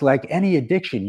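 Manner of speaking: ordinary delivery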